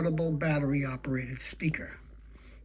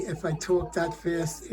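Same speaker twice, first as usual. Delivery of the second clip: slow enunciation; slower than usual. Shown as a demonstration. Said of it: "when I talk and enunciate".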